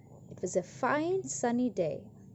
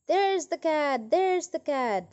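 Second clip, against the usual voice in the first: higher, louder squawking cry, repeated; mock magpie scream read to children; 5 semitones higher, 4 dB louder than usual. A narrator's reading. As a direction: shriek it out like a spiteful magpie. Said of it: "the magpie screamed".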